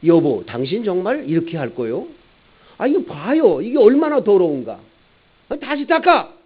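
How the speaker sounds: hammed-up furious driver; angry driver. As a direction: shout down the attendant. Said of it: "막 화를 벌컥 내면서".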